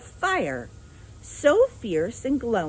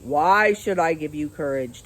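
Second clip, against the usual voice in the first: demanding; 3 semitones lower, 6 dB louder than usual. A narrator's reading. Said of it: "demanded Oz".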